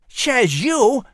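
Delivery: high squirrel voice with whistled esses; proud little squirrel, lisping through buck teeth; whistling through teeth. Acted.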